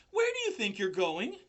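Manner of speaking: loud, high desperate pig call; calling out in alarm; frantic call. A narrator's reading. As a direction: shout after the spider. Wilbur calling after spider.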